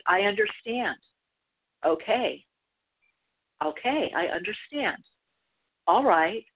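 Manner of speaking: steady, soothing reassurance; calm him down gently; calm acknowledging. Retold or imitated. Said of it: "and I got calm".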